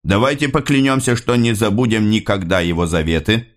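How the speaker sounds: plain reading voice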